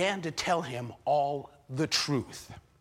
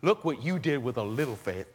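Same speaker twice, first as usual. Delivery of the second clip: gentle Jesus; 4 semitones lower than usual. Acted. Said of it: "maybe change it just a little?".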